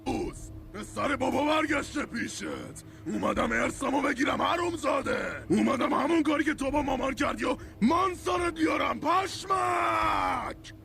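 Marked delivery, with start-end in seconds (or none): 3.1-10.7 angry shout. Acted. Angry son confronts father.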